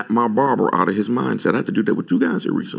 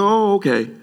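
sarcastic retort; 2 semitones higher, faster than usual. Retold or imitated. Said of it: "I said".

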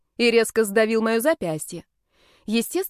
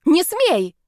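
high, louder shriek; 8 semitones higher, 5 dB louder than usual. A narrator's reading. The witch shrieks at the snake to keep out of her underwear. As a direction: shriek in alarm. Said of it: "взвизгнула я".

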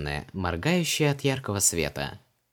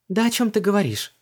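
put-on much higher, lively young woman; Vanessa's voice; 12 semitones higher, 6 dB louder than usual. A narrator's reading. Vanessa asks Creole about his customs, puzzled. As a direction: pitch her up, brisk and puzzled.

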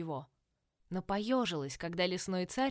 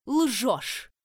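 loud furious accusation; furious shout; 3 semitones higher, 7 dB louder than usual. A narrator's reading. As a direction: yell it at the liar. Queen yells accusation.

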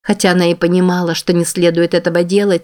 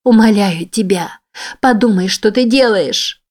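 tearful pleading; 4 semitones higher than usual. Acted. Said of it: "Её глаза застилали слёзы".

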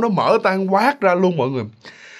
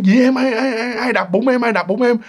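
higher, urgent husband's questions; acted startled questioning; 5 semitones higher than usual. Husband woken by his wife's cry, acted startled questioning. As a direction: stammer out alarmed questions, pitched up.

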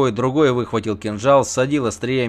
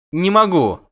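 high, loud cry of helplessness; strained protest; 8 semitones higher, 5 dB louder than usual. A narrator's reading. Dangling and asked to free a hand, strained protest. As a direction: cry out that it's impossible. Hanging helpless, refusing the plea.

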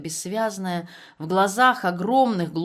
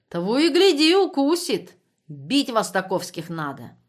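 higher, louder angry rant; 4 semitones higher, 4 dB louder than usual. Acted. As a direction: spit it out in anger. Guard's angry remark. (гневная тирада)

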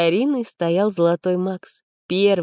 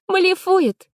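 dismissive scoff; 14 semitones higher, 5 dB louder than usual. A narrator's reading. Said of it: "кивнула девушка брату".

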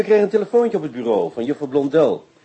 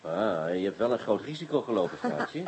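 soft chuckling words, quieter; laughing softly; 7 semitones lower, 8 dB quieter than usual. Acted. Teasing Yvonne about her risk, soft chuckle. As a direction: laugh it out gently at her nerve. Teasing partner after risky trick.

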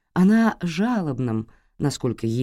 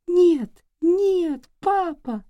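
put-on much higher girl's wail; terrified child; much slower than usual. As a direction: cry out in fear. Little girl crying no.

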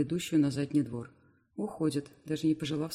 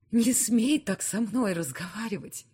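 breathless, higher and slower protest; out of breath; 6 semitones higher, 4 dB louder than usual. Acted. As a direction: gasp it out while upset. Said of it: "задыхаясь, проговариваю я".

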